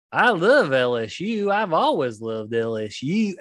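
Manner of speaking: slow put-on Southern accent; mock a coach faking a Southern accent; fake Southern accent. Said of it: "He starts talking like this".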